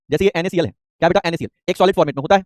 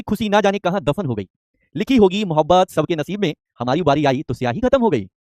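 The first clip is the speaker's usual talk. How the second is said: slow shayari recitation; slower than usual. Shown as a demonstration. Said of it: "एक शायरी हो जाए".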